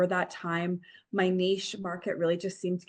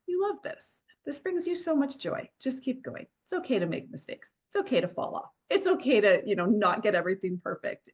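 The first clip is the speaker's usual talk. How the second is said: higher, soft encouraging self-talk; gentle quiet inner voice; 4 semitones higher than usual. Retold or imitated. Encouraging herself back on the horse, high and gentle. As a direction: coax yourself gently to keep going. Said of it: "the quieter voice was going".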